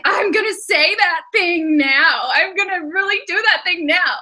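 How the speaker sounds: playfully acting out fired-up impulsiveness; mock fired up. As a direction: act like you're itching to blurt it out. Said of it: "you just get so fired up".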